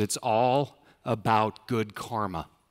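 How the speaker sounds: put-on, slow, utterly level, flat deadpan. Speaker quotes a woman's reply while deciding on a partnership, mimicking her deadpan. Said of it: "She goes deadpan and she goes".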